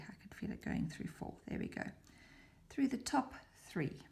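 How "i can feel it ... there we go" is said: fast, much lower whisper to herself; whispered aside. Real, not acted. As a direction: whisper quickly, absorbed in the task. Whispers while passing needle.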